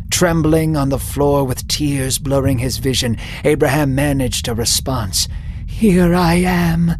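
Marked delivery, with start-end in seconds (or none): 5.7-6.9 slow, broken little reply, a bit higher; whimpered. Acted. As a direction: answer God slowly, overwhelmed and trembling. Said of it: "he whimpered".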